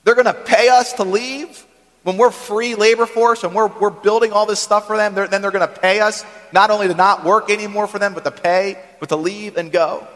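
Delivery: can't believe what he's hearing, half laughing; incredulous Moses. Retold or imitated. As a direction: Moses stunned that the Egyptians will pay them to leave, incredulous. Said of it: "Moses might have laughed out loud".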